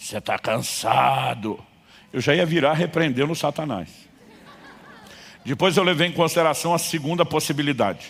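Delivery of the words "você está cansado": raspy, hoarse voice from somewhere deep, cavernous. Retelling a voice behind him while locking the car in the dark: hoarse cavernous voice. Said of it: "uma voz rouca e cavernosa ressoa atrás de mim".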